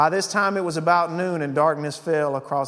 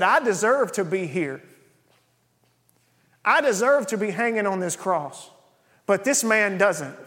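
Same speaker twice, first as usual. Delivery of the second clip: earnest confession; 6 semitones higher, 4 dB louder than usual. Retold or imitated. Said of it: "I read it like he said it".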